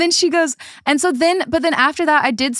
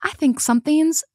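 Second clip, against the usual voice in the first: sly teasing. Retold or imitated. Friend squaring off, grinning at her.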